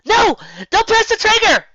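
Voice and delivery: half yell. A narrator's reading. Twilight to Megan, a loud high yell. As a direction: stop her finger with your voice. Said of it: "she half yelled".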